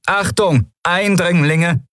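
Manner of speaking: high-pitched robotic warning, drawn out at the end; stiff, high automated alert; rasping machine alarm. A narrator's reading. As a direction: announce it like a security machine. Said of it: "schnarrte die Kugel".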